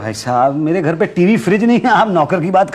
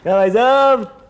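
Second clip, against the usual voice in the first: raised-pitch hail; calling out; 5 semitones higher than usual. Acted. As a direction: call to get someone's attention. अनसुना करते शुक्ला को पुकारना. (पुकारते हुए, ऊँचे सुर में)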